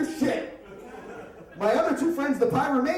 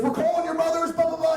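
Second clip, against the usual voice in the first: freaking out captain; 6 semitones higher, faster than usual. Retold or imitated. Captain yelling at the boys, high mock shout. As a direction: bark it like a furious police captain. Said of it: "He's freaking out".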